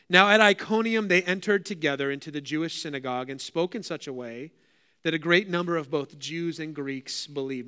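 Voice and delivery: measured public Bible reading; deliberate phrasing for listeners following along; scripture reading. Acted. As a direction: read the passage out to a congregation. Reads scripture aloud.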